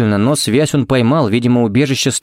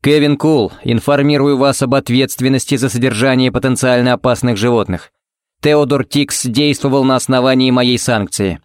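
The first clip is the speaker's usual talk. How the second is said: each word stamped out officially; clipped formal words. A narrator's reading. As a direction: chop every word, official. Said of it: "Чеканя каждое слово". (чеканя каждое слово)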